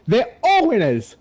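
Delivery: high, slow hammed-up cheer; drawn-out cheer. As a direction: stretch it out like a host. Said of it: "Give them a round of applause".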